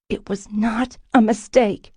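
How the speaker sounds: voiceless hiss through the teeth. A narrator's reading. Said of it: "I hissed".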